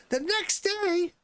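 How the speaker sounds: very high, slow outraged question; incredulous. Real, not acted. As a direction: stretch it out in disbelief. Outraged at hospital rule.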